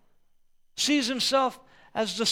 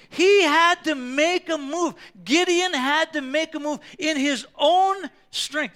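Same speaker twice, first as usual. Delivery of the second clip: high, loud, emphatic preaching; preaching shout; 6 semitones higher, 6 dB louder than usual. Real, not acted. A pastor urging the congregation, shouting the point. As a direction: drive the point home to the congregation.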